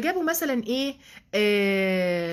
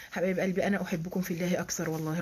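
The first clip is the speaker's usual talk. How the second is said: softer, lower loving aside to the students; soft affectionate aside; 5 semitones lower, 6 dB quieter, faster than usual. Real, not acted. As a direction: say it tenderly under the breath. (همسة حنونة للطالبات)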